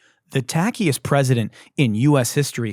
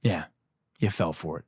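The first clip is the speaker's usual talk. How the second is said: quiet gloating; 8 semitones lower, 7 dB quieter than usual. Acted.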